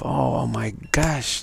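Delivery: slow, drawn-out mock gushing; wiggly giggly temptress. The high sailor role coming on, mock giggly gushing. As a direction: stretch out a lightly put-on swoon. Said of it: "the wiggly, giggly, high sailor role".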